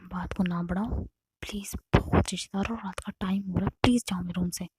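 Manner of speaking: whispered, so the relatives in the next room won't hear; urgent hushed plea. Retold or imitated. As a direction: beg her to leave in a tense hush. Relatives nearby, Navya begs to hush.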